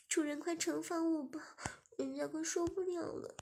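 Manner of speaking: put-on a young woman sweetly owning her fault.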